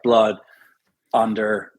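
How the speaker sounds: blood, under with open American vowels; American accent, U opened up in blood and under. Shown as a demonstration. Irish actor opens his vowels for American roles, American accent. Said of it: "So we have to open those up".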